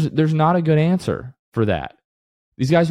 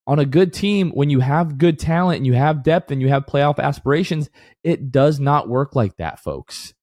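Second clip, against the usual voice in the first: outburst; 2 semitones higher than usual. Real, not acted. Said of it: "I apologize for my outburst".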